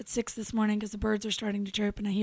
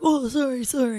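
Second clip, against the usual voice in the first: startled apology; 2 semitones higher, 6 dB louder than usual. Retold or imitated. Brother startled awake apologizing.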